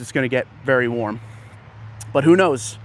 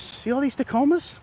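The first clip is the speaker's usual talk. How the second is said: excited; 11 semitones higher than usual. Real, not acted. Amazed at rows of trucks.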